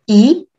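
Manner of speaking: 一 swept upward in a short rise; teacher's rising-tone model of 一. Shown as a demonstration. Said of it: "raising tone, shorter".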